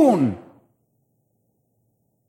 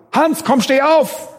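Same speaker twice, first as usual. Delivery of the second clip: mock shout; 9 semitones higher, slower than usual. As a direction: yell it as if the dead could hear. Calling a dead man.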